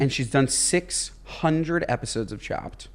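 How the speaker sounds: whispered aside. Real, not acted. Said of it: "whisper measured".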